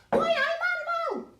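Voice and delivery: loud, high Geordie catchphrase; Geordie accent. Acted. Baker playing up old Newcastle talk for viewers, Geordie accent. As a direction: burst out in exaggerated Newcastle dialect. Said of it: "I used to go".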